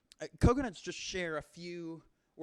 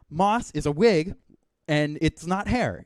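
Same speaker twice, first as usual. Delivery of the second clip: louder, indignant correction; emphatic retort; 7 dB louder than usual. Acted. Comedian scolds an imaginary heckler, loud and indignant. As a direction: shout down the heckler's claim.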